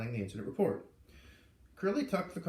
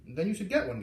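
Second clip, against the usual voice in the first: put-on much higher, casual boy; high kid voice; 6 semitones higher, 5 dB louder than usual. A narrator's reading. Garrett asking Roy at lunch, high boyish voice. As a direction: pitch way up like an eager schoolboy.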